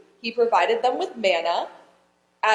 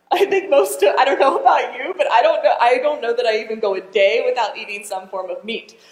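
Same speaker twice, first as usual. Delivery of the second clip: real laughter running through the words, louder; laughing; 5 dB louder, faster than usual. Real, not acted. Preacher admits to the congregation, laughing. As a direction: chuckle through the confession.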